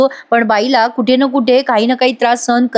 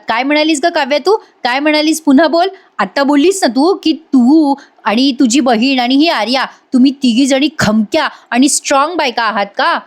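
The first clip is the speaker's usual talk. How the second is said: higher-pitched, taunting challenge; intimidating Vasu Atya; 4 semitones higher than usual. Retold or imitated. Vasu Atya confronts Kavya, lightly acted intimidation. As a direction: imitate an aunt trying to frighten her. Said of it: "काव्याला घाबरवायला लागतात बरं का आणि म्हणतात".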